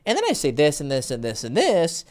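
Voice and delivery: rhythmic run of "and this"; varied intonation. Shown as a demonstration. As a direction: bounce evenly through each repeated "this". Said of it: "Use intonation".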